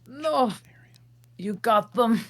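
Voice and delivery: winded, voiceless gasp of an answer; strained whisper. Acted. Shrek answers Donkey after the kick, breathless whisper. Kicked in the crotch, wheezing.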